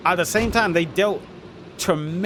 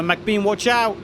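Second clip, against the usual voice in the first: sudden raised call; warning shout; 5 semitones higher, slower than usual. Real, not acted. Warning a player in the match.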